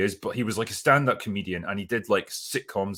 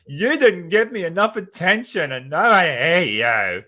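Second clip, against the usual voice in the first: mock whiny child, pitched much higher and louder; petulant child; 9 semitones higher, 8 dB louder than usual. Reviewer mocking Durin as a sulking child, high whiny voice. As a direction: sulk it out like a spoiled kid who feels ignored. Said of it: "he's like a petulant child".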